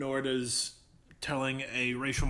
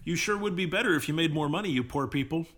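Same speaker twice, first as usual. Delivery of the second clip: higher-pitched condescending mock advice; mock condescension; 5 semitones higher, 4 dB louder than usual. Host parodying someone lecturing poor people, mock condescension. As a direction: talk down to them in parody. Mocking those who punch down.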